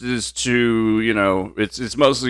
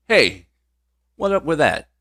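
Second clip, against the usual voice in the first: catchphrase impression; 7 semitones higher than usual. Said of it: "a segment on Saturday Night Live".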